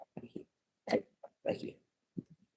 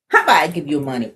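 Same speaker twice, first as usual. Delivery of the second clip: fast, louder sly offer; quick bribe; 7 dB louder, much faster than usual. Acted. Pigeon bribing the reader with money. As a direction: rattle off the bribe.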